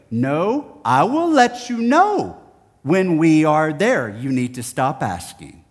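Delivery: dad laying down the law; stern dad. Retold or imitated. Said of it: "And so he'd go".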